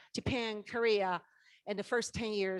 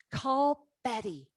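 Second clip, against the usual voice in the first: inner voice; 3 semitones higher, 5 dB louder, slower than usual. Retold or imitated. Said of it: "there's a voice came".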